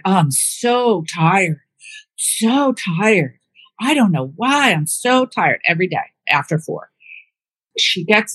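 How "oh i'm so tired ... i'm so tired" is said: slow, mock weary complaint; imitating tired mom. Daughter imitating mom every afternoon, mock weary drawn-out voice. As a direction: drag it out like a worn-out mother. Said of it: "She's always".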